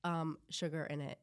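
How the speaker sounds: slow, halting British put-on; attempted British accent. Guest retrying the breakfast challenge, in a careful British accent. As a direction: feel your way through a British accent. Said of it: "tea sounded really British".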